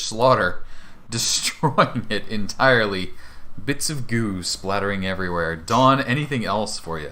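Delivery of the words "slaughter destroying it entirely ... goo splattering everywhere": loud, raised, dramatic narration; game master narration. Acted. Game master describing the player's killing blow, dramatic narration. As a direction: announce the kill with relish.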